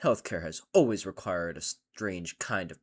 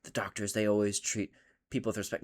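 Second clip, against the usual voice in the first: mocking whisper; 3 semitones lower, 5 dB quieter than usual. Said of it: "And it's like".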